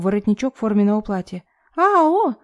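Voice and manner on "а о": высокий короткий вскрик горничной; вскрикни, когда хватают за воротник; испуганный вскрик. A narrator's reading. (испуганный вскрик горничной)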